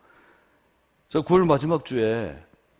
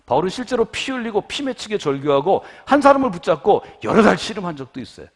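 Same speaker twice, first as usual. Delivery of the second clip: loud, raised, impassioned sermon voice; preaching at full force; 5 semitones higher, 9 dB louder than usual. Real, not acted. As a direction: drive the challenge home to the congregation, loud and high. (힘껏 외치는 설교)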